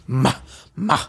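getting into character with syllables; actor's warm-up before a role; vocal warm-up. Shown as a demonstration. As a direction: warm up the voice on short "ma"s. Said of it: "I gotta get into the".

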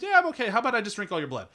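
sweet menace. Retold or imitated. Vampire bride to helpful drivers, sing-song sweet menace. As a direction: coo it innocently, then bite. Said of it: "She goes".

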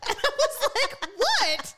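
high laughter through the words; laughing. Real, not acted. Telling a friend about being shushed, laughing. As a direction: giggle as you tell it.

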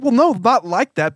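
high, slow exasperated correction; correcting, patient but tired. Retold or imitated. She replays herself correcting the friend, slow and exasperated. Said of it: "I'm like".

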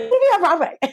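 high-pitched mock tearful squeal; imitated happy crying. To puzzled onlookers at the airport, imitated happy crying. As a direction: squeak it out, overwhelmed with joy. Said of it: "crying and screaming by myself boarding".

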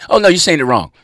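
loud, high mock correction; hammed-up loud, high correcting tone; correcting white person. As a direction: play the know-it-all telling him he's wrong. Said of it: "non-black people and say".

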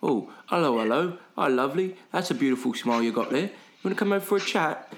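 mock English sales patter, rising to a high, quick finish; pommy charity guy. Pommy guys in his ear all day, mock English accent. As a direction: imitate a relentless English chat-up routine. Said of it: "they are fucking in my ear all day".

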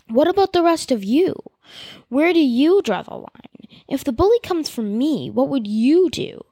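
pleading with the whole crowd, voice rising; raw with emotion. Acted. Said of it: "her voice raw with emotion".

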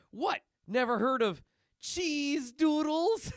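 high cartoon voice, drawn out; hammed-up incredulous punchline; Cheese explaining. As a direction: stretch the punchline out loudly. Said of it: "Cheese explains".

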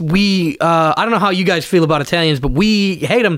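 put-on American accent. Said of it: "let's do this all American real quick".

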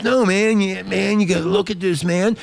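high-pitched, urging friend impression; acting out an insistent buddy, pitched high; retold insistence. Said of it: "And he goes".

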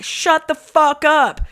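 slow, drawn-out mock shout out the window; imagined yell down at the saxophone player, slow and mock-stern; pretend yell. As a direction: spell out each word at a street musician, slowly. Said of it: "I could yell at him".

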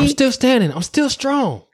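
high, intense movie-hero declaration; dramatic movie quote. Acted.

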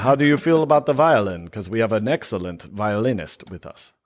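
hammed-up Russian accent. Russian envoy pitching a violinist to Trump, Russian accent. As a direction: play the cultured Russian envoy, accent and all. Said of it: "if I'm doing a Russian accent".

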